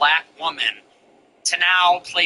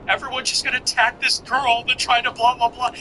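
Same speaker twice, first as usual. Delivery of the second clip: imitated TikTok voice, pitched up; TikTok sound; 6 semitones higher than usual. Recalling a TikTok sound to mock her, higher imitation. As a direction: parody a viral sound in a higher voice. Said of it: "What's that TikTok sound?".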